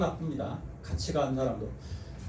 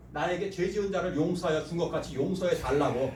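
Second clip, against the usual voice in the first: ordinary delivery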